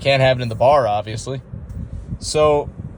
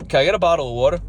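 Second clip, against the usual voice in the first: higher-pitched repeat of the order; repeated request; 4 semitones higher, much faster than usual. Retold or imitated. Repeating himself to the girl who didn't understand, higher-pitched request. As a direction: ask it once more, pitched up. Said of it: "had to repeat myself four times".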